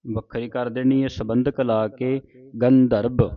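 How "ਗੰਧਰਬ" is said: ਗੰਧਰਬ as one word, nasal attached to the g; joined pronunciation. Shown as a demonstration. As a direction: join ਗੰਧਰਬ without a break. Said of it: "ਪਾਠ ਇਕੱਠਾ ਹੀ ਉਚਾਰਨ ਕਰਨਾ".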